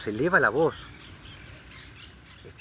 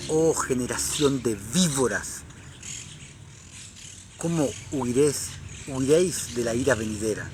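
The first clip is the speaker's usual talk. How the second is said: fiery prophet rebuke. Retold or imitated. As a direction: thunder it like John the Baptist, measured and stern. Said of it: "Juan el Bautista le decía".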